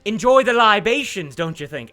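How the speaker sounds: lightly voiced captain, swinging pitch with deliberate pauses; Phoebe, self-assured captain. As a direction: play a talkative captain taking back the floor.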